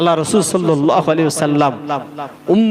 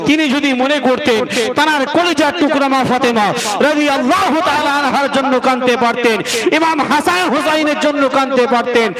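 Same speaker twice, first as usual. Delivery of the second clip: impassioned preaching; 6 semitones higher than usual. Real, not acted. Preaches insistently.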